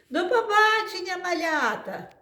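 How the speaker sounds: high squeaky little mouse; a teacher's high mouse puppet squeak. Acted. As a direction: chirp it like a tiny mouse. Mice say goodbye to kids.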